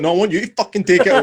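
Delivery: loud, fast mock outrage; indignant girlfriend. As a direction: snap back at the waiter, half laughing. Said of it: "She's like".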